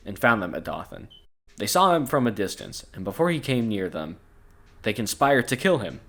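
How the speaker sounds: measured storybook narration with clear phrasing; scripture read-aloud. A narrator's reading. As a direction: read the Bible passage aloud. Reads the Bible story aloud.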